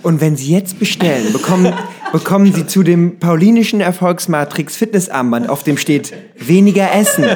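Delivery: hammed-up teleshopping pitch; infomercial. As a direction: sell it like a TV shopping host. Teleshopping parody of an armband.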